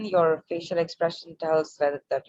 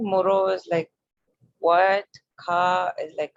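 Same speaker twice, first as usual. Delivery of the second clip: explaining slowly; slower than usual. Shown as a demonstration. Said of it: "It's like the short form".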